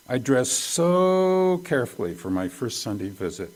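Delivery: emphatic, punchy first-person storytelling; proud, deliberate recital; dramatic reading. Retold or imitated. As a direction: read her testimony with relish, leaning on key words.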